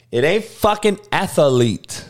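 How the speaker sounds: ordinary talk, nothing marked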